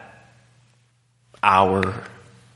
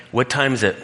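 bored mock question; 3 semitones higher, faster than usual. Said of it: "And I'm just like".

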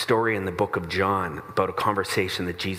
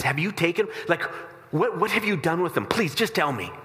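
pleading Mary; 8 semitones higher than usual. Acted. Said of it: "the Bible says she's weeping".

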